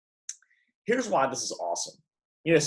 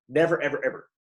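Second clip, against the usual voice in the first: "Never, ever, ever" punched word by word; insistent repeated "ever"; emphatic; faster than usual. Retold or imitated. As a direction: hammer each "ever". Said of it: "Why would Jesus be so emphatic".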